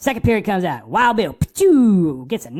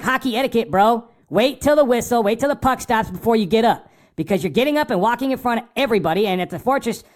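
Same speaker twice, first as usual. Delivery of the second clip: scolding a rookie fan about etiquette, higher pitched; lecturing the newbie; 4 semitones higher than usual. Retold or imitated. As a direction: set him straight, a bit worked up. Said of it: "I'm like".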